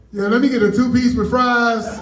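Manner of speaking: sudden bright order at the drive-thru; casual drive-thru order. Retold or imitated. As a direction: switch to ordering food, upbeat. Ordering food mid-call.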